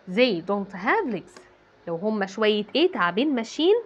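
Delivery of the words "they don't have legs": very slowly, word by word; slow dictation. Shown as a demonstration. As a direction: spell it out slowly for the class. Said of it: "أقوم حاطة اس الجمع". (إملاء ببطء شديد)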